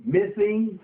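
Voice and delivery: slow, spelling out each word; dictating. Shown as a demonstration. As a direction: dictate it for the notes. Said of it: "Put down the word".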